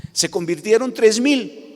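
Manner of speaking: slow, measured statement. Shown as a demonstration. Pastor telling how three thousand converted, slow and measured. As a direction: let it land slowly.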